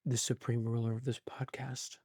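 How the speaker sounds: low, soft, ominous voice; deep grand voice. Acted. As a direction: say it like a dark lord. Grand title.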